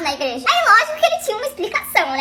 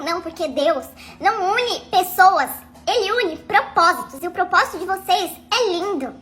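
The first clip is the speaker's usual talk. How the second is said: slow pious pastor; 3 semitones lower, 3 dB quieter than usual. Retold or imitated.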